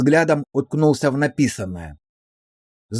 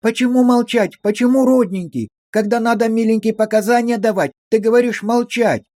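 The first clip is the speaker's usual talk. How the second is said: high, pleading sing-song; high wheedling lament; 7 semitones higher than usual. A narrator's reading. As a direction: wail back in hurt protest. Verka's voice continues. (высокое жалобное причитание)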